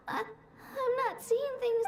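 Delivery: slow, halting words through tears; tearful. Acted. Lost girl hearing her friends call her, slow and tearful. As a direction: hold back a sob as you speak.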